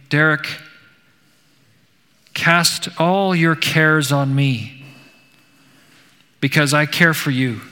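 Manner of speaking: a hint of a tender divine voice; gentle, loving voice. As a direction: lay each word down tenderly. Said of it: "The voice was gentle and loving".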